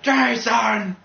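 high, drawn-out parody call; mock calling out. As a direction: call for a lost son, hammed up. Parodies game father calling his son.

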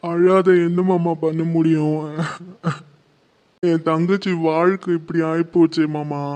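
words dragged out through tears; tearful. Acted. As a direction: grieve helplessly to an elder. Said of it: "அழாதப்பா".

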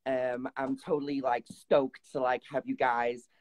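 imitating American accent. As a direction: tease the host by aping her American accent. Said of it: "Is that how you think I sound?".

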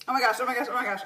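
breathless after a hot bite; panting through spicy heat; burning mouth. Real, not acted. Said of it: "my nose is on fire right now".

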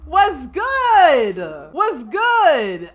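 loud, drawn-out playful greeting; calling out. Pretend. Player hailing Katrina in the game, loud playful call. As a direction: holler it to get her attention.

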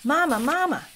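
put-on high, loud baby-bird cry for mama; peeping gosling. A narrator's reading. Hatchling gosling calls out to the robot, high and loud. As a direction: peep it like a newborn chick calling out.

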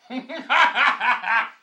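high, loud staccato laugh; long raucous cackle. Acted. Loud laugh after remark.

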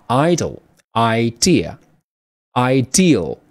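idle stressed on EYE, idea stressed on DEE, said slowly; slow contrast of idle and idea, each stressed where the teacher points; syllable stress demo. Shown as a demonstration. Teacher shows students where to stress, slow stress demo. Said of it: "意思就是从这儿重读啊".

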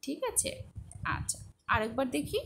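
ordinary delivery

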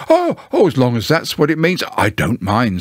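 hurried, slightly humble bear, dropping away; mildly humble. Acted. Pooh gives way to Owl over long words, mildly humble. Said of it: "said Pooh humbly".

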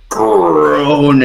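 drawn-out creak on the word; imitated groan. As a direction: stretch the word like a straining bed.

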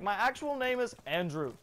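comic Indian tech-support voice; mock Indian accent. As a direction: insist in a put-on Indian accent. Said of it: "switch your voice like that".

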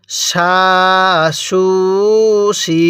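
সা, সু, সি said as long "shaa, shuu, shii"; full sh sound, each vowel drawn out; thick shin. Shown as a demonstration. Teacher shows learners the shin letter, thick sh. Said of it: "শিনটা মোটা করে পড়ব".

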